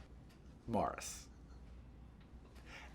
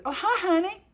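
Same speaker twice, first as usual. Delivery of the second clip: very high, loud, effusive hello; theatrical, pitched-up diva voice; impersonation of a showbiz singer; 5 dB louder than usual. Retold or imitated. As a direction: greet like a gushing showbiz diva. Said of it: "my diva impersonation".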